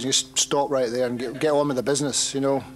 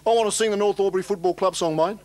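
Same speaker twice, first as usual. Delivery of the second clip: higher, eager footy supporter voice; drunk footy fan; 7 semitones higher than usual. Retold or imitated. Drunk fan on stage asks singer to sing, pushy and eager. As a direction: play the pushy fan who wants the mic. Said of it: "He goes".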